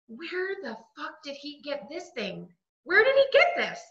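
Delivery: retold outrage at the candlestick; furious disbelief. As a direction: demand to know where it came from. Finding the ex's candlestick.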